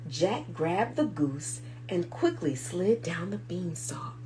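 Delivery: whispered, breathless storytelling; hushed whisper. A narrator's reading. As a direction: whisper it like a secret escape. Reading tense escape to children.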